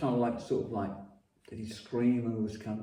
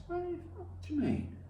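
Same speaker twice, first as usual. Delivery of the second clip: much higher, startled disbelief; shocked question; 7 dB quieter than usual. Retold or imitated. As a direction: ask it as if it can't be true. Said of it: "I said".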